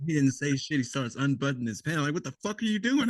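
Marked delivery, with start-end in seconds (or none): 2.1-3.1 mock scream in a raised pitch; retold scream. Soldier retells yelling at sleepwalking doc, mock high-pitched scream. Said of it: "I start screaming at him".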